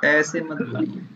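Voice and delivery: too quiet demo. Shown as a demonstration. To a quiet student, showing the wrong soft voice. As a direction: show the student how faint they sound. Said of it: "इतना धीरे बोलिए तो कैसे आएगा".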